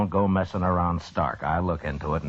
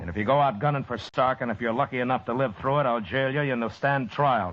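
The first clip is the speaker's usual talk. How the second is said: firm, raised voice, laying down the law; stern warning; 5 semitones higher than usual. Acted. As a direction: warn him he'll be jailed. Marshal warning the colonel.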